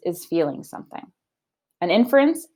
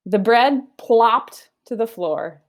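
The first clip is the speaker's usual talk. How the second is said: slow savoring; 3 semitones higher, 3 dB louder, slower than usual. Shown as a demonstration. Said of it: "What a good word".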